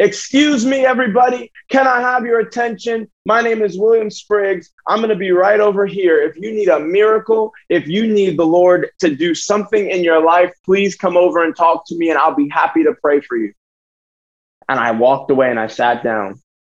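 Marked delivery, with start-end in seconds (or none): 0.0-11.2 put-on bold, confident, loud shout. Retelling standing up to address a crowd: retelling a bold yell. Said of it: "I get up and I just got bold and I yelled".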